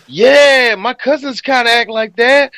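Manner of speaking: a hint of a clueless dude's voice. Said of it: "But he was like".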